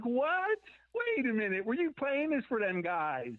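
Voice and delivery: high, startled "what?" then quick suspicion; mock disbelief. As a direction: squeak out the shock, then question him. Shocked at a band's record.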